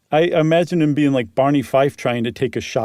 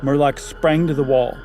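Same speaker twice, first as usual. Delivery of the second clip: measured, even storytelling voice reading a Halloween tale; story narration. Acted. Reading a spooky story aloud to a co-host, steady narration. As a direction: draw the listener into the dark cabin, line by line.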